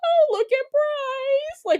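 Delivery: high, drawn-out fake-casual exclamation; feigned innocence. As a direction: cover up badly, overdoing the casual act. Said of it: "trying to pretend like I'm not filming".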